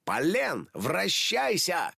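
a hero's magic command, «вращайся» drawn out; transformation call. Acted. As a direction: call «вращайся» out slowly and grandly.

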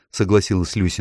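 ordinary delivery

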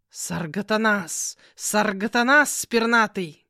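slow, loud, grumbling; grumbling cat. Acted. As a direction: growl the name out slowly in irritation. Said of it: "проворчал кот". (медленное громкое ворчание)

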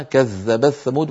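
كذبت ثمود with ت merged into ث; merged reading. Shown as a demonstration. Teacher showing idgham in كذبت ثمود. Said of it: "يدغمون التاء في الثاء فيقولون".

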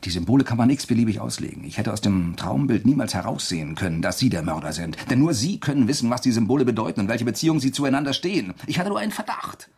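forceful, rising accusation; urgent accusation. Acted. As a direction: push the accusation hard. Accusing the murderer.

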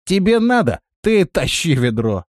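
высоко и громче, дерзко; дерзко огрызнуться; огрызаясь. A narrator's reading. Рохля огрызается. (дерзко огрызаясь)

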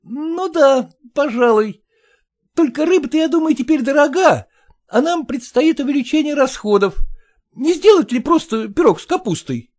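high voice, penny-pinching hedging; high, stingy son-in-law. Acted. Stingy son-in-law haggling with father-in-law, high and hedging. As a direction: try to wriggle out of spending. Porfiry haggles over fish.

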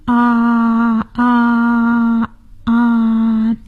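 drawn-out ahh for the doctor; saying ahh. Shown as a demonstration. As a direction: open wide and say ahh. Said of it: "请张开嘴说： “啊，啊，啊。".

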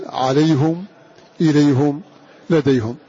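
عليهم إليهم لديهم read with a damma, ʕalayhum, ilayhum, ladayhum; Hamza's damma on the ha. Shown as a demonstration. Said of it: "على قاعدته". (قراءة حمزة بضم الهاء)

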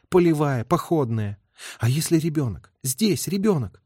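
a hint of self-reproach and worry; troubled woman. Heroine's troubled inner monologue.

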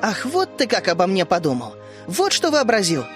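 put-on girl flaring up in offended anger; indignant outburst. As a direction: fire back at a friend who insulted her. Vishnya flares up at narrator.

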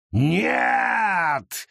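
high, drawn-out shout of horror; wail. Acted. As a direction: howl it in defeat. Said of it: "завопил Мамунапехт".

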